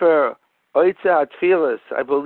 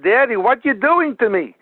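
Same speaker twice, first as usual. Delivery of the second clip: put-on higher-pitched boy's protest; imitated frightened protest; 6 semitones higher than usual. Son to his father during surgery, lightly acted alarm. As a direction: lightly act out a child's alarmed plea.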